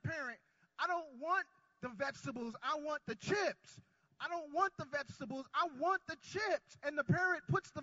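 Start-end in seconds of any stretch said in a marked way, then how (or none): 0.8-6.8 put-on whiny kid. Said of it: "An ornery kid just acting a fool".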